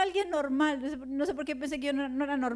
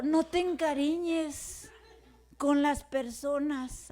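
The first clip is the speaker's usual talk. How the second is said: slow, measured quoted advice; retold sober warning; 2 semitones lower, much slower than usual. Pastor warning her about the congregation, slow and measured. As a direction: spell it out slowly, as advice passed on.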